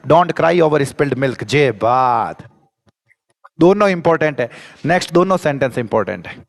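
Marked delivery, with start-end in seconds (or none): 0.1-1.4 slow, word by word; slow answer. Shown as a demonstration. Teacher revealing the complete idiom to the class, slow. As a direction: give the full phrase deliberately. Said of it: "तो क्या लगाना पड़ेगा sir".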